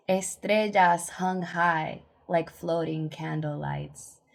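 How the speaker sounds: measured spoken-word reading with pauses; poised poetry reading; poem recital. Acted. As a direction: recite it line by line, letting each image land.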